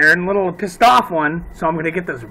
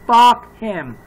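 louder repeat; 3 semitones higher, 6 dB louder than usual. Real, not acted. Cursing the dead shooter.

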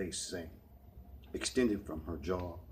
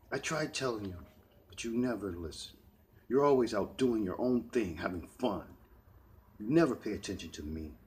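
angry yelling; 2 semitones higher, 3 dB louder than usual. Acted. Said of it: "China shouted out, yelling".

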